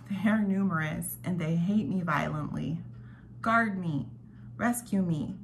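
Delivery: measured, solemn psalm reading; scripture reading. Acted. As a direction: read the psalm like a devotional. Reads a psalm aloud.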